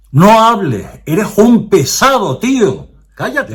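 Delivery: imitar a un parroquiano harto, con voz muy aguda y más fuerte; reproche espetado, imitado. Retold or imitated. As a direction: soltar el reproche en falsete exasperado, como personaje de anécdota. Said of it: "el personaje me espeta". (imitando a un tipo harto que increpa, agudo y fuerte)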